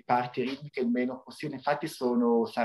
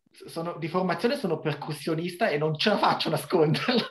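laughing; 4 semitones higher than usual. Real, not acted. Laughing admission about being percussionist.

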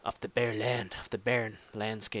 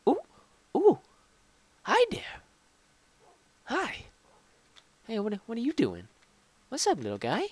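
cutesy creature talk; 10 semitones higher than usual. Real, not acted. Greeting a small creature in the game, high cooing baby talk. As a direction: coo at the little critter like a pet.

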